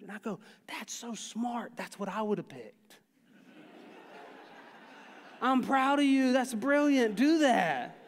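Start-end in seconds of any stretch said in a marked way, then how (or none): 0.7-3.0 soft, slow start of praise; impressed praise. Retold or imitated. Dad to son who chose to calm down, soft impressed praise. Praising son's choice softly. 5.4-8.0 raised, louder emphatic praise; proud praise. Retold or imitated. Dad to son after a good choice, proud loud praise.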